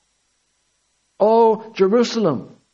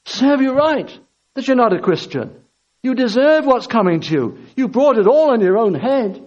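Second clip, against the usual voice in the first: raised-pitch, acted scolding; stern reproach; 3 semitones higher than usual. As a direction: hand down deserved blame, pressing each charge. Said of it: "he has every right to say".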